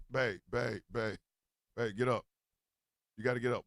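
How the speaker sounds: hushed urging to a sleeping partner; urgent hushed wake-up. Retold or imitated. Waking wife at night.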